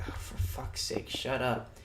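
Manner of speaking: whispered, fed-up groan of the words; exasperated whisper. Retold or imitated. Mocking his own reaction to the scene, whispered exasperation. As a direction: roll your eyes and whisper it. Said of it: "And I was like".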